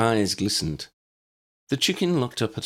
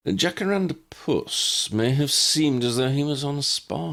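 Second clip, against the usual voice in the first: chuckling; 7 semitones higher than usual. A narrator's reading. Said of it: "Ambrose chuckled".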